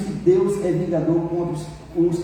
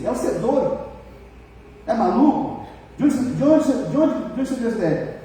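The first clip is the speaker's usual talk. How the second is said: shocked wife; 5 semitones higher than usual. Retold or imitated. Wife shocked by husband's fantasy.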